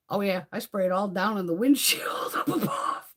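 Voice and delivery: whispered through a giggle; half whisper it, giggling; laughing whisper. Real, not acted.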